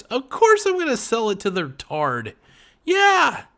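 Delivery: mock the smug seller cashing in; gloating seller. Seller gloating over the fool buyer, mock high voice.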